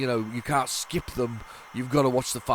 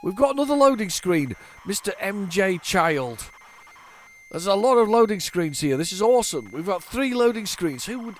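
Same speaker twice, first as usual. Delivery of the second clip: excited; 7 semitones higher, 4 dB louder than usual. Real, not acted. Excited at loading screens.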